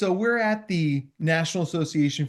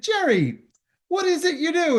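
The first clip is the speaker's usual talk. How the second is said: asking the audience; 13 semitones higher, 3 dB louder than usual. Retold or imitated. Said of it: "And I said".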